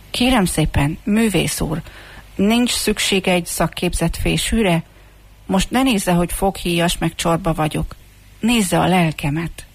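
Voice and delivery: politely bold request, understated; plucky appeal. Acted. Comb offers itself to the street musician, boldly but politely. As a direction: gather courage and make the pitch. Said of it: "merészen így szólt".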